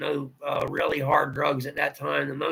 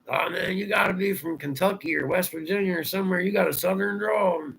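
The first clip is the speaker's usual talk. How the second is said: lightly mimicked stranger, pitched up; mock know-it-all guess, voice raised in pitch; imitating insistent stranger; 5 semitones higher than usual. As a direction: retell their reaction in a higher voice. Imitating strangers remarking on his drawl.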